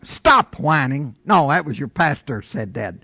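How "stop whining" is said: slow, measured command; the Lord speaking. Acted. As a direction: state it slowly, as the Lord's word. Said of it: "So the Lord says".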